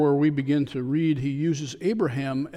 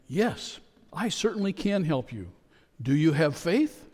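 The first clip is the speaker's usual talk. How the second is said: calm; 2 semitones higher than usual. Retold or imitated. Voice from above answering the tourist, calm. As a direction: answer him serenely and unhurried. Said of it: "that calm voice replied".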